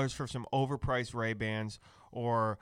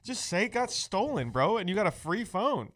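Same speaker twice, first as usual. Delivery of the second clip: laughing high mock advice; 8 semitones higher than usual. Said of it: "I'm just like".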